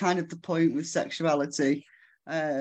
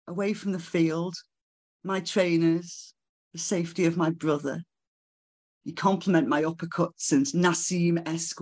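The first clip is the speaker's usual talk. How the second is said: measured, deliberate spoken-word delivery; poetry recital. Acted. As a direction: read the poem phrase by phrase, letting pauses hang. Recites own poem to audience.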